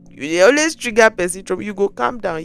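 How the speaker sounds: quick Pidgin scolding jab; teasing scold. Real, not acted. Teasing the partner who always triggers trauma, quick Pidgin scold. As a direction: scold them playfully, fast.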